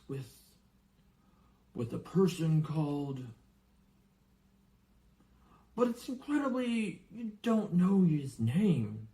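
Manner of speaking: lightly voiced anxious giant; worried giant. Giant worriedly confides in the boy. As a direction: fret over what the boy was never told. Hagrid telling the story.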